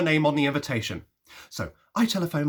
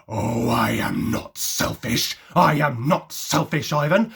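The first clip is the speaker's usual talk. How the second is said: indignant protest; 4 semitones lower, 3 dB louder, slower than usual. Retold or imitated.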